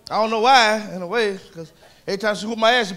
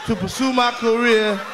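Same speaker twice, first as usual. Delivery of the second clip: Leon's mumbling talk; slower than usual. Retold or imitated. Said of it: "he can't talk".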